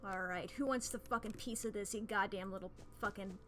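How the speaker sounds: put-on old-timey New England insult voice; 1920s New England tough. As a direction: spit insults like a 1920s Yankee. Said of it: "possessed by the soul of, like, a nineteen twenties New England type".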